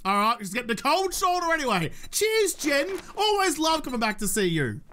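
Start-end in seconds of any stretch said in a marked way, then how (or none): 2.1-4.8 sarcastic thanks, pitched way up; fake-cheery thanks to a rude trader; sing-song sarcasm; sarcastic cheer. Real, not acted. Sarcastic thanks after cold shoulder.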